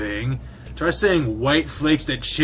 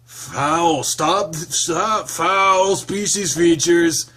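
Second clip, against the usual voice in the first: crying foul; 5 semitones higher, 3 dB louder, much slower than usual. Acted.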